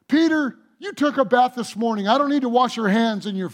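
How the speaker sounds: lightly voiced Jesus correcting Peter; Jesus gently chiding. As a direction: tease Peter patiently. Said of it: "Jesus said to him".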